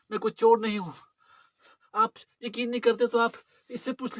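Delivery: frightened beggar begging for mercy; pleading beggar. Acted. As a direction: plead pitifully with the sahib not to beat you. Acted beggar begging not to be beaten. (गिड़गिड़ाता हुआ बेबस भिखारी)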